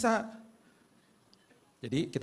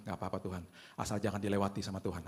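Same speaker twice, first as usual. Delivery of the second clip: soft prayer; 3 semitones lower, 6 dB quieter than usual. Retold or imitated. Quiet prayer to God.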